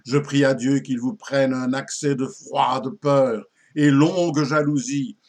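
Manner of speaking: slow, emphatic poetic declamation; declaimed verse curse. Acted. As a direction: launch each stanza firmly like a solemn malediction, easing down at its close. (malédiction déclamée en vers)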